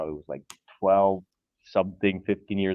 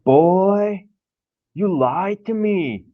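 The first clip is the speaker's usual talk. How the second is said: imitating the armed dad; 8 semitones higher, 6 dB louder, much slower than usual. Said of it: "and he's like".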